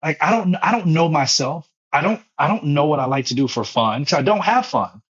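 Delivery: high, exasperated overwork rant; high exasperated list. Real, not acted. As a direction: rattle off the workload high and fast. Pitched up listing overwork.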